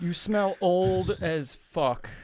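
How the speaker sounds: drawn out slowly, teasing; slow drawled insult. Acted. Character mocking the old newcomer, slow teasing drawl. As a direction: stretch the insult out lazily. Character greets new ally rudely.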